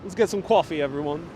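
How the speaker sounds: mild New York accent demo; lightly put-on New York vowels. Shown as a demonstration. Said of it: "talking that real New York accent".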